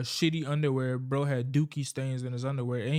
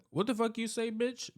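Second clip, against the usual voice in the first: much higher, over-the-top indignant snap; exaggerated outrage; 8 semitones higher than usual. Shown as a demonstration. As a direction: ham up the offended comeback. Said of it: "I gotta over-exaggerate".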